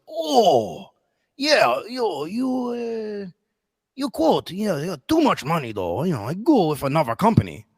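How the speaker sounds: imitated Asian accent. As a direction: caricature a customer with a thick Asian accent. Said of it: "he was an Asian American guy".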